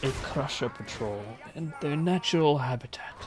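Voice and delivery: slow, hushed wildlife narrator; nature documentary. Pretend.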